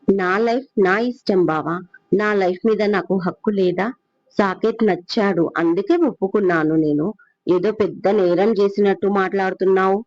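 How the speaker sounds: softly, firmly standing her ground; quiet defiance. Acted. Pooja quietly defying Rana over her marriage, softly.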